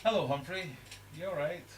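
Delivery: put-on high, soft baby-talk greeting; high cooing hello to a pet fish; sweet talk to fish. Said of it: "I would normally come into the fish room and go".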